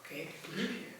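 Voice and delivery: a paramedic giving up and saying he believes him; mock resigned low voice. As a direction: concede quietly, unconvinced. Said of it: "And he was like".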